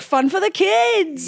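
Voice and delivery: put-on high, slow, goofy kids' advert. Shown as a demonstration. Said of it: "goofy and funky".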